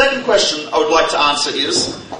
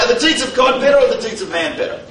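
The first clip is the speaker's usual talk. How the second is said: cocky, higher, fast, light mock Italian accent; mock Italian Roman; 5 semitones higher, faster than usual. Roman challenges the rabbi, light mock Italian accent. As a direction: swagger the question in a hint of Italian accent. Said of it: "I don't know if he had an Italian accent".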